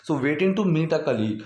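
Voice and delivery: slow, careful dictation pace; slow teaching read; slow model sentence. Shown as a demonstration. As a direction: spell it out slowly. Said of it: "So, basically".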